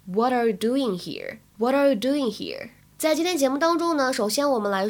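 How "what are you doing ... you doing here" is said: "What are" linked, the t softened to a d; American voiced t. Shown as a demonstration. Teacher demonstrates American voicing, "What are" with a d-like t. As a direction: say "What are" as "whadder", run together. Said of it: "当中还可以有一个美音浊化的现象".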